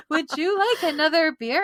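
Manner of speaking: sing-song forced niceness; fake nice voice. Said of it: "How do I speak nice?".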